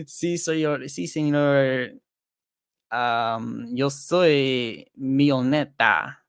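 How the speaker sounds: slow mock Mexican accent, words stretched out; hammed-up Mexican accent bragging about being rich. Streamer repeats the joke in a slow mock Mexican accent. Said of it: "That was my Mexican accent".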